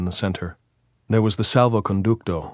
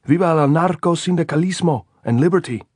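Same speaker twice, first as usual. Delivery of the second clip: shouted slogan; 9 semitones higher, 6 dB louder than usual. A narrator's reading.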